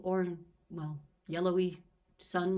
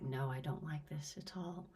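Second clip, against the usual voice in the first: half-asleep whispered groan; groggy whisper; 3 semitones lower, 7 dB quieter than usual. Retold or imitated. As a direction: breathe it out, barely awake. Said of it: "I was like".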